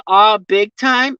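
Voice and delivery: drawn-out Aussie phrase; lightly mimicked Australian accent; imitated Aussie accent. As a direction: echo it with an Australian twang. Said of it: "I can hear your, your Aussie accent".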